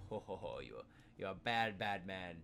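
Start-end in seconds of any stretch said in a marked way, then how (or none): 0.1-0.6 a hammy bad-guy chuckle; evil laugh. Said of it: "Evil laugh".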